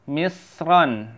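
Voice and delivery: "Misron" sounded alone with a plain n ending; careful demo of "Misron"; clear n ending. Shown as a demonstration. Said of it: "jangan misron lagi".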